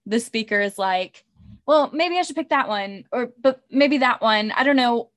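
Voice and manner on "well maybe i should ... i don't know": dithering aloud, pitched slightly up; mock indecisive. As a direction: act out wavering between two options. Acts out the speaker dithering.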